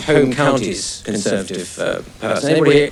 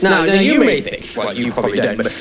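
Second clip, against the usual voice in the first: home counties Tory; 5 semitones higher than usual. Acted. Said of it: "the sort of voice I'm gonna be attempting to use".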